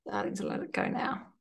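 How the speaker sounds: soft breathy whisper. Shown as a demonstration. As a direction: let the words out on breath. Repeating guide softly.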